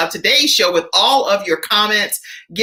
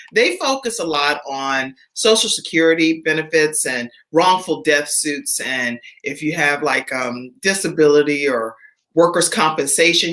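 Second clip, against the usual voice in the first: sponsor ad read. Acted. Host reads sponsor ad.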